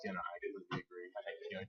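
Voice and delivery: hushed, voices kept down; muffled. Real, not acted. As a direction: keep it quiet for the room. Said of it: "our voices down a little bit".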